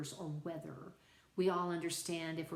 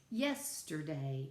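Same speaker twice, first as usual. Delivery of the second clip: "Yesterday" with YES stressed; stress on first syllable; 2 semitones lower, slower than usual. Shown as a demonstration. Teacher shows a dactylic foot, "Yesterday" stressed on YES. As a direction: hit YES, let "terday" fall away. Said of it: "the first syllable is accented".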